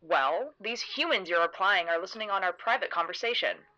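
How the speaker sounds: exaggerated, playful puzzlement with swooping pitch; mock confusion. Narrator theatrically searching for eavesdropping humans, mock confusion. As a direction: play it up theatrically, feigning bafflement. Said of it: "I look at her with mock confusion".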